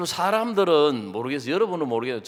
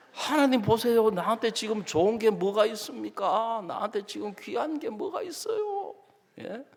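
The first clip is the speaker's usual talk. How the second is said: higher, heated complaint to God; mock angry plea; 9 semitones higher than usual. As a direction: protest as if arguing with God. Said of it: "더 화가 나는 거예요".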